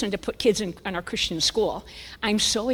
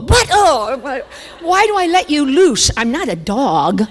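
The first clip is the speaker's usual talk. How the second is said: loud, high protest dropping in pitch; mock exasperation; 5 semitones higher, 7 dB louder, slower than usual. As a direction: act out a heated marital quarrel. Acted quarrel with husband.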